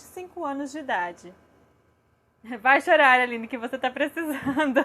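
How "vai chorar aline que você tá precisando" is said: laughing mock scolding, loud at the start; mimicked parent's scolding. Mother recalls what her own mother told her, amused mock scolding. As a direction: mimic a parent's put-down, then break into laughter.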